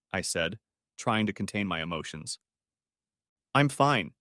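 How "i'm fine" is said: lifeless. A narrator's reading. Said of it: "in her lifeless voice".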